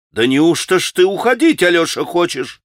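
sorrowful astonishment. Acted. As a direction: cry out in grieved surprise. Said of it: "воскликнула она в горестном изумлении". (горестное изумление)

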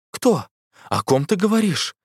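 высоко и громко, яростно; реветь вопрос в лицо; рёв. A narrator's reading. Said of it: "ревел бог воров". (бог воров ревёт на богиню: яростный рёв)

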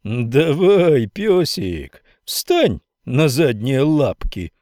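slow mocking drawl; drawling taunt. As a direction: drawl it out, teasing. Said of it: "протянул Миллер". (насмешливо протянуто)

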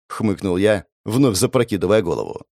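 ordinary delivery

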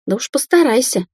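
выше и громче, на взвизге; истеричный визг; истерично взвизгнула. A narrator's reading. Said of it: "истерично взвизгнула Дина". (визгливо кричит Андрею из-за двери)

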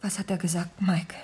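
soft, tense whisper; anxious whisper. Acted. Wife asking what the inspector said, in an anxious whisper. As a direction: ask without daring to speak up.

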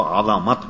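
عظمت with a vowel on the ظ, a-za-mat; correct pronunciation. Shown as a demonstration. Cleric teaching the right reading of a prayer word, عظمت as a-za-mat. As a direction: open the middle syllable of عظمت, "azamat". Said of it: "یہ اصل میں تلفظ جو ہے".

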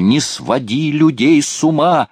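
высокий громкий крик; закричать, срываясь на визг; вопль. A narrator's reading. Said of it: "вдруг завопил Лебенталь". (высокий отчаянный вопль)

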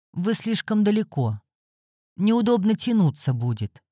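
indistinct mumble, face pressed into a shoulder; mumbled into shoulder. Acted. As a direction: mumble it muffled against her shoulder. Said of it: "невнятно пробормотал он мне в плечо".

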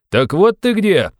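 loud, high furious shout; shouting at the top of his lungs. A narrator's reading. Razumikhin shouting at runaway friend, furious. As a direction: yell it with all your voice. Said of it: "крикнул он во всё горло".

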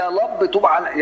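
"يا لب" high, R swapped for L; copied speech impediment. Acted. Believers copying their lisping prophet, R said as L. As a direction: mimic the lisped "يا لب" faithfully. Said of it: "يقوموا يقولوا زيه".

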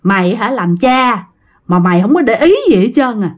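mildly acted telling-off, rising in pitch; retold scolding. Great-grandfather scolding the father in a dream, retold telling-off. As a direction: scold like an indignant elder, lightly imitated. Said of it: "ông Cóc chửi ba quá trời luôn".

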